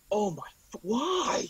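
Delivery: words broken by hiccups; interrupted by a hiccup. Real, not acted. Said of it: "I don't know why I'm hiccuping".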